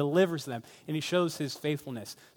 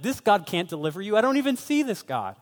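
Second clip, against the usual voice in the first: scoffing imitation, climbing higher; mocking nations; 5 semitones higher than usual. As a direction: act out dismissive unbelievers. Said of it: "God at times was mocked".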